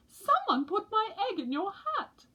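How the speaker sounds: high, amused; mother penguin. A narrator's reading. Mother penguin tells polar bear about egg, high. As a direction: explain with a smile. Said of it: "said Missus Pilchard Brown".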